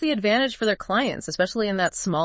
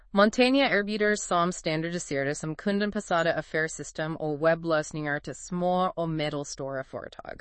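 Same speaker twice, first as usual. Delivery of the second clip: Swedish accent; 2 semitones lower than usual. Shown as a demonstration. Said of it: "I'm gonna try my best Swedish accent here".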